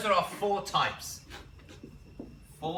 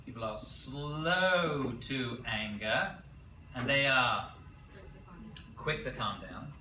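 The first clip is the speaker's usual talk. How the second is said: slow dictation; 3 semitones lower, slower than usual. Shown as a demonstration. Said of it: "Write these down".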